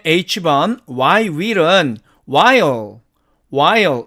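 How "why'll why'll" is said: "while" said for why'll, as "wai-o"; contracted why'll. Shown as a demonstration. Teacher shortening why will, contracted. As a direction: glide "while" into an open dark L. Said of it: "이렇게 발음이 되고".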